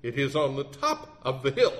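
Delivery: mildly huffy insistence; mock indignation, lightly done; huffed. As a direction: insist like an exasperated lawyer. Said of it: "huffed the lawyer".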